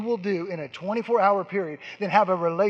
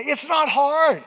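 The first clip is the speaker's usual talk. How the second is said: "It's not hard" higher, louder and slow; emphatic insistence; 8 semitones higher, 6 dB louder, slower than usual. Real, not acted. Preacher assuring the congregation, "not" loud and slow.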